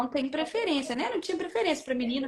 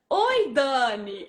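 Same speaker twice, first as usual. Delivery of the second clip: quick hello; 4 dB louder, much slower than usual. Retold or imitated. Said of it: "Fala rápido, né?".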